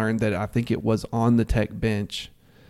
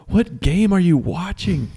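high, slow, incredulous jeer; mock yelled heckle; 7 semitones higher, slower than usual. Co-host replays friend's yell at ref, mock heckle. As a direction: imitate a fan calling out the ref. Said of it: "I yelled out a perfectly".

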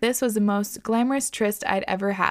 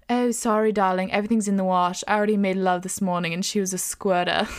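a hammed-up, not quite French accent; mock French accent. Host imitating the Paris hookup in a mock French accent. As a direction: play the suave European lover, badly. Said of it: "he just sounds so".

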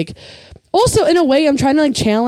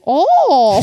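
high, loud "oh" in a mock Asian accent; a caricatured Asian-accent "oh", punched up; 7 semitones higher, 5 dB louder than usual. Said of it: "Come back and be like".

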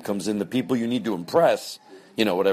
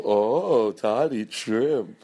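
mock crew gossip; 3 semitones higher, much slower than usual. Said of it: "the fake podcast crew would go".

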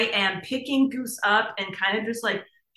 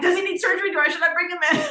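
higher, laughing panicked voice; freaking out; 8 semitones higher, 3 dB louder, much faster than usual. Retold or imitated. Owner asking the vet about surgery, laughing panic. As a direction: retell the panic, half laughing. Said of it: "I'm freaking out".

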